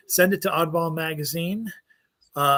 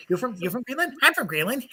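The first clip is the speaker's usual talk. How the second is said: higher, mock Danish accent a la Joe Piscopo; Joe Piscopo Dane accent; 8 semitones higher, faster than usual. Joking about Danes on the podcast in a mock Danish accent. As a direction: ham up a fake Danish accent. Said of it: "I'm gonna do the Joe Piscopo ask-, accent for Dane".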